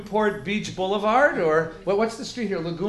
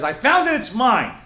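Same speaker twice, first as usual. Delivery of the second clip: high, louder cry of ownership; a hammed-up grab, insisting; mock indignant claim; 4 semitones higher, 4 dB louder than usual. A man in court pleading over the shirt, hammed-up indignant.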